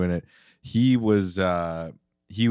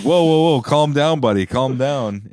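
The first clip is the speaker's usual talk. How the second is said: calming; 3 semitones higher, 4 dB louder than usual. Retold or imitated. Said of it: "you'd be like".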